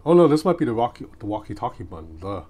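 usual speaking voice

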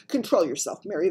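sharp, loud order; sharp rebuke. A narrator's reading. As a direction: pull the maid into line sharply. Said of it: "the Queen said sharply".

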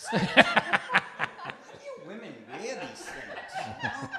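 slow, laughing through the words; laughing complaint. Pretend. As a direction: drag it out while cracking up. Mock complaint about bra strap.

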